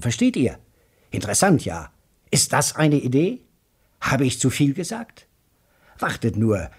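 lightly voiced excited Joe Welling talking while walking; a hint of an eager chatterbox; mildly excited character voice; excited talker. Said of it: "der aufgeregt weiterredete".

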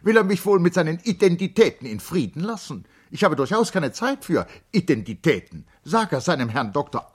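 high, loud indignant outburst; angry cry. A narrator's reading. Charlotte furious at the servant's fussing, high and loud. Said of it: "rief Charlotte erzürnt".

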